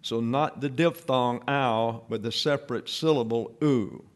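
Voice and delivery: ow said as a diphthong, then oo said alone; contrasting ow and oo. Shown as a demonstration. Teacher contrasting the diphthong ow with oo. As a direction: set ow against a separate oo. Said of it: "vowel is pronounced as a separate syllable".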